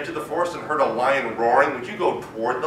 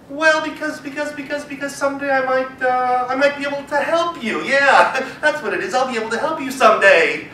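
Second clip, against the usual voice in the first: flustered mouse; 7 semitones higher, 4 dB louder than usual. Acted. Mouse scrambles for reason.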